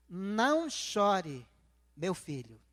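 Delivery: slow, drawn-out words, dropping low at the end; lightly voiced divine comfort, falling low; voice of God. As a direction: retell God's slow, consoling words. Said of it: "aquela palavra falou assim pra mim".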